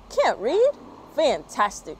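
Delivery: high, loud, thrilled squeal from the bird; delighted. Acted. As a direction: squeal with delight like an eager teacher.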